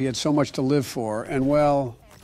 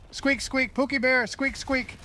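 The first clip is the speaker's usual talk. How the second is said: higher, squeaky hamster chatter; high hamster squeaks; 8 semitones higher, 3 dB quieter, slower than usual. Acted. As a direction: squeak sweetly at Pookie Bear.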